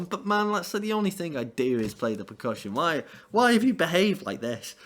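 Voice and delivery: hammed-up wounded drummer; outraged bandmate. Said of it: "Ringo's just".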